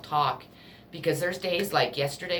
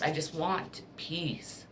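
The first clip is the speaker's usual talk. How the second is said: softer and much slower, almost to herself; soft weary repeat; 6 dB quieter, much slower than usual. Real, not acted. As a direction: let it sink into a tired hush. Repeated plea for peace.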